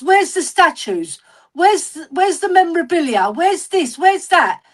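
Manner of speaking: retold insistent run of repeated questions; insistent questioning. Fan pointing at the stadium keeps asking Ellie, insistently. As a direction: imitate someone pressing the point, pitch lifted on each question. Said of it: "he kept on reiterating it".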